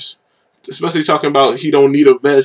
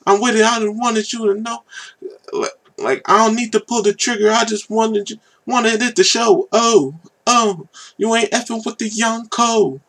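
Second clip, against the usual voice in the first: imitating the rapper's hook; 10 semitones higher than usual. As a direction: mimic his hook, pitched way up and hushed. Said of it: "it's like".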